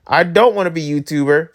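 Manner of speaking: firm refusal at normal pitch; emphatic quoted refusal; present-day refusal. Retold or imitated. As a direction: reject the old dream outright. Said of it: "I'm like".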